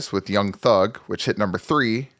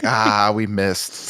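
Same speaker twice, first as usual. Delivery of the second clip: laughing mock groan; much slower than usual. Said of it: "you're like".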